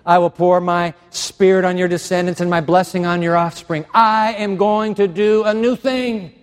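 rising, insistent voice of God; God speaking to him. Retold or imitated. God telling Dwight he will do a new thing. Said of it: "God came one day to me and he whispered".

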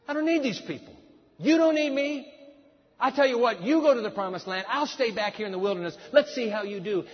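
God fed up. Retold or imitated. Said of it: "Because God says".

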